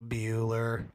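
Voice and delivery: low monotone roll-call drone; monotone teacher. Acted. Teacher calling for an absent student, monotone. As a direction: call the name out tonelessly, drawn out. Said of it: "he literally goes".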